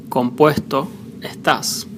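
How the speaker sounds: "Compuesto estás" with S breathed as H before consonants and at the end. Shown as a demonstration. Spanish teacher showing Argentina and Uruguay accent, "Compuesto estás" with H for S. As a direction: soften each S in "Compuesto estás" into an H. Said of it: "mostly sound like an H".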